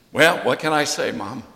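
usual speaking voice

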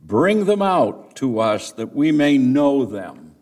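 demanding call from a crowd, read aloud. Acted. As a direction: call out to the man indoors. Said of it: "they called to Lot".

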